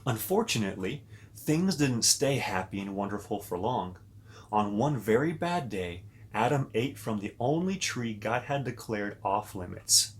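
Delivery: put-on storybook narration for little kids; reading to children. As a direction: read it like a bedtime story to children. Reads Bible story to kids.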